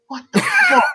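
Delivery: a high squeal of disbelief, laughing through it; appalled laugh at potatoes in the bolognese. Retold or imitated. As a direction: shriek it out, half laughing. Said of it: "and I'm like".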